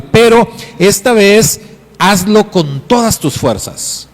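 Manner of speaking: voz de padre que anima al hijo, algo más alta; padre animando. Acted. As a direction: empuja al niño a intentarlo de nuevo.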